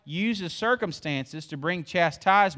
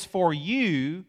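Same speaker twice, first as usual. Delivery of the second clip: slow devout quote; 3 semitones lower, much slower than usual. Acted. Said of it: "He says".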